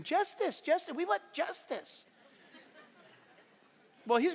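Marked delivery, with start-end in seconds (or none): 0.0-2.0 high, whiny chant of a demanding crowd; a mild mock yell, pitched high; mock crowd screaming. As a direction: mimic a mob crying out for justice. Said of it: "Everybody's running around screaming".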